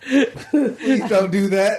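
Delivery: slow, laughing please. Real, not acted. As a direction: beg them to stop through a laugh. Laughing plea to stop.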